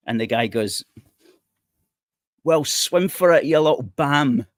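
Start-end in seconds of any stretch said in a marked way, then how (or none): 2.4-4.4 mock smuggler. Mock smuggler taunts dinghy passenger.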